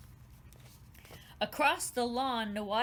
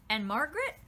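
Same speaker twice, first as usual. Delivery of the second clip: put-on child voice; 4 semitones higher, 5 dB louder, faster than usual. A narrator's reading. Child asking about cousins.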